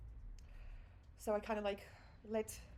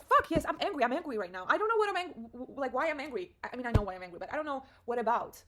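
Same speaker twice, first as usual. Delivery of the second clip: angry release; 2 semitones higher, 6 dB louder than usual. Retold or imitated. Fired up by singer's angry album, loud venting. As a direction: let the anger burst out, stumbling over it. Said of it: "I can feel anger in her voice".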